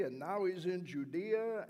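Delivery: loud, angry crowd accusation; furious accusing shout; yelling accusation. Retold or imitated. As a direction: shout him down to the governor. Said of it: "They continued yelling at me".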